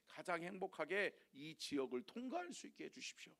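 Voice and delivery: low, soft, pleading prayer; earnest prayer. Pretend. Abraham praying for safety in a foreign land, soft and pleading. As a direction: pray it quietly to God, asking protection. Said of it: "라고 하나님 앞에 기도했어야지".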